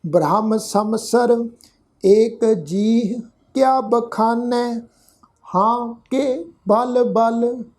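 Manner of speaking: slow, measured recitation of scripture. Shown as a demonstration. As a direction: lay out each word slowly so learners can follow. (धीमा, ठहरा हुआ पाठ)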